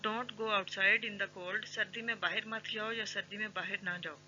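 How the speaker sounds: ordinary delivery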